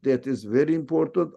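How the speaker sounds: normal talking voice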